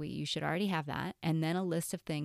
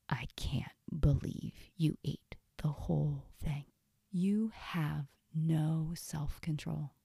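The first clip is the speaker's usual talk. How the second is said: slow scolding inner voice; unkind inner critic. Acted. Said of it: "usually something not kind".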